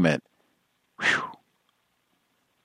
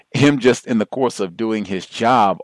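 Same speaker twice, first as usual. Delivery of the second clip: usual speaking voice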